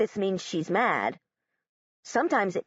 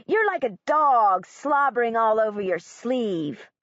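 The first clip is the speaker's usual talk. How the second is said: mild mocking yell; 2 semitones higher, 3 dB louder than usual. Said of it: "he yells".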